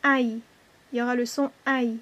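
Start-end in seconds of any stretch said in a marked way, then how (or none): 0.0-0.4 "aïe" as one long gliding vowel; diphthong demo. Shown as a demonstration. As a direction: draw out "aïe" from an open a into a y glide. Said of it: "se prononce".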